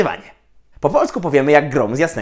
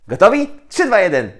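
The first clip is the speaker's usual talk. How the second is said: excited; 9 semitones higher, 5 dB louder than usual. Real, not acted. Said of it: "countdown to the start".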